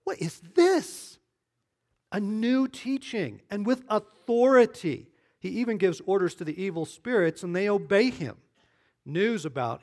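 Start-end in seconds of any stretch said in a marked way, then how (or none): 0.0-8.4 amazed crowd. Acted. The amazed townspeople asking each other, high astonished wonder. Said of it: "amazed that they asked each other".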